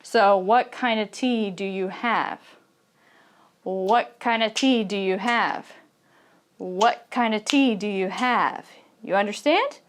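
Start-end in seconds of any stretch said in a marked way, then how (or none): 0.4-2.4 "T" clear, the other words run together; stress on T. Shown as a demonstration. English teacher modelling a question for learners, stress on T. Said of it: "this word is going to be clear and loud". 3.6-8.6 "tea" clear, "what kind of" linked together; stress on tea. Shown as a demonstration. English teacher repeating a question for learners, stress on tea. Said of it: "this word is going to be clear and loud".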